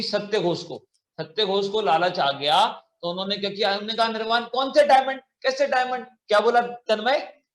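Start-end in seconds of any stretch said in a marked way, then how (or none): 4.1-6.0 feigned innocence. Acted. Greedy keeper denying the diamonds to the merchant, mock-innocent. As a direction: play dumb about the diamonds, pitched up.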